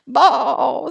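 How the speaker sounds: stretched animal cry; bawling calf. A narrator's reading. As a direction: bellow like a startled calf. Calf bellows.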